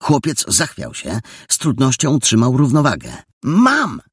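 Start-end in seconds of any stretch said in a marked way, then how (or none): 3.4-4.0 bright triumphant call, high and loud; beaming cry. A narrator's reading. Jola announces her find to the boy, beaming cry. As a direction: call it out, thrilled, pitched way up. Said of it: "zawołała rozpromieniona Jola".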